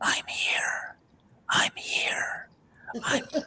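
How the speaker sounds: very quiet, slow, breathy whisper. Imitating a quiet whispery voice heard on a recording. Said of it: "a very quite whispery voice".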